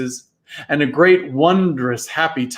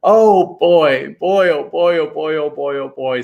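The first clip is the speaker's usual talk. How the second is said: weeping with happiness; 4 dB louder than usual. Acted. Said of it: "exhausted and weeping with happiness".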